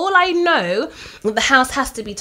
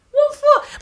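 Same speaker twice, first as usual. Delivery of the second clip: indignant. Real, not acted. Laughing indignation.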